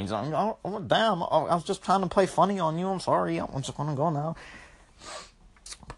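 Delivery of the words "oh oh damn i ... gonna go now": sheepish monster. Acted. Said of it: "That's his fucking breaking point".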